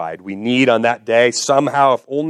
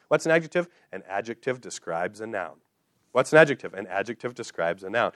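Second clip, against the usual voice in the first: sing-songy voice; 3 semitones lower, 5 dB quieter than usual. Retold or imitated. Father drilling kids on grammar, in a sing-songy voice. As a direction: chant it as a singsong call and response. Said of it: "I said it in a sing-songy voice".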